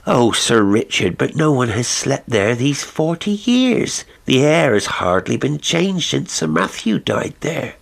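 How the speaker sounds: a worried servant begging her master not to; anxious housekeeper. Acted.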